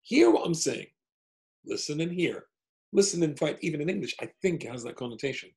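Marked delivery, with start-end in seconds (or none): 0.0-2.4 much higher, louder call; far-off call. Shown as a demonstration. Calling to someone far away, a loud high call. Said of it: "If you're far away".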